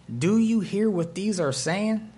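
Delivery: mildly scandalized challenge; indignant. Acted. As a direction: ask it affronted, drawn out. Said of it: "the tone in their voice".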